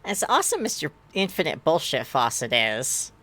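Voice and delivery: a touch of forced cheer; brightly pushing past the annoyance; mildly forced cheery retort; forcefully cheery. Acted. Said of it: "forcefully cheery".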